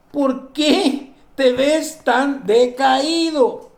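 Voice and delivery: very slow, sagging mock-depressed question; mock depressed drag. Preacher mimicking a depressed Cain, slow and sagging. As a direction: droop the words like someone sunk in gloom. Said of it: "ya entró en depresión".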